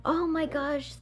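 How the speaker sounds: high, soft mock gush; gushing relief. Woman to the man who stepped in, gushing relief. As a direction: imitate a gushing, grateful woman.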